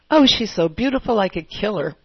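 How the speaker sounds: quick mock admiration with a jab; joking envy. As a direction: imitate a catty throwaway joke. Quotes own joking jealous remarks.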